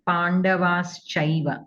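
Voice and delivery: slow "Pandavas Chaiva" with the sh before ch sounded; shakara pronounced. Shown as a demonstration. Teacher restores a dropped sound, "Pandavas Chaiva" with clear shakara. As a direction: sound the sibilant joining "Pandavas Chaiva", unhurried. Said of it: "that shakara you did not pronounce".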